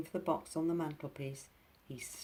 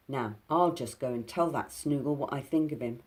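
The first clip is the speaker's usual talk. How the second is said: fiercely; 6 dB louder than usual. Acted. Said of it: "said Binky fiercely".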